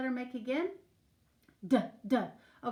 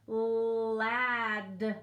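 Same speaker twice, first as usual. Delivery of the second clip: dying robot voice. Shown as a demonstration. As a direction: sound out ladder like a winding-down robot. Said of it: "like a robot whose batteries are dying".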